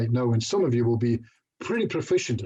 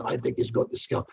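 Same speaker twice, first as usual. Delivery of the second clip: imitated whisper; 3 dB quieter than usual. Audience members nudging each other.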